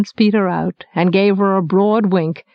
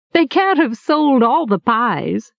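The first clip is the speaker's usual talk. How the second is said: laughing; 3 semitones higher than usual. Acted. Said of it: "she said, laughing".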